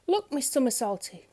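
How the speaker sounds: rising to a high, loud "look!"; panicked cry. A narrator's reading. Mister Brave on the tightrope, crying out to Miss Somersault in panic. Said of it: "he cried out in panic".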